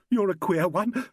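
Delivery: lightly sobbed, half laughing through tears; sobbing. A narrator's reading. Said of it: "sobbed Carolyn".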